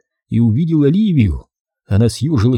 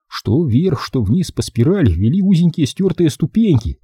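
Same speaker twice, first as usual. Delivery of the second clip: ordinary delivery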